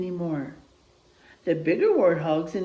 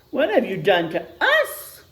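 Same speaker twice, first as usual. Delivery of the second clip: louder, half-laughed demand; laughing demand; 6 dB louder than usual. Acted. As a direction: throw it back with a laugh. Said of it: "demand the other animals".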